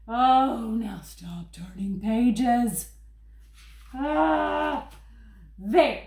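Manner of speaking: furry monster Grover, fretful and pleading. Acted. Grover reading his book to the kids, worried and pleading. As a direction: play lovable Grover begging the child not to turn pages.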